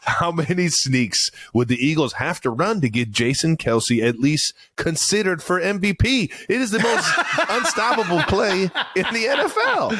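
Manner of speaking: rising to high-pitched, laughing insistence; excited, hammy outburst of praise; impassioned hype. Real, not acted. Hyperbolic argument for the play, laughing.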